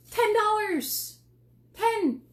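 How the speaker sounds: high, loud and slow, stretching out Ten; excited. Real, not acted. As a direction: announce the price like a big reveal. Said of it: "I got excited there for a second".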